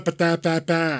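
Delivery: nonsense "ba, da" in a mock Boston accent; wordless Boston-accent babble; mimicked Boston chatter. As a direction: imitate relatives' accent with nonsense syllables. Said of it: "like, any function with her family, it's just".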